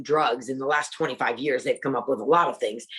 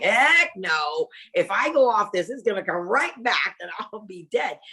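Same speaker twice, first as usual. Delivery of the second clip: higher, insistent "Heck no"; adamant refusal; 5 semitones higher than usual. Retold or imitated. To her doctor about stopping medicine, adamant refusal. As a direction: refuse flatly, scared to stop.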